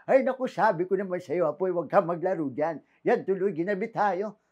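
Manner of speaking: lightly voiced scolding grandpa; a grandpa gently scolding; old grandfather voice. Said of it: "radio drama".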